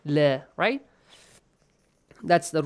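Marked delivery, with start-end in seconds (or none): 0.0-0.4 la with a thin, front 'a' as in "cat"; light lam. Shown as a demonstration. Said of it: "pronounced with an a sound".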